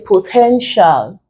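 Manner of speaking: "potential" slowed, weight on the middle "ten"; stress on second syllable. Shown as a demonstration. Teacher showing where the word is stressed, second-syllable stress on "potential". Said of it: "we stress it on the second syllable".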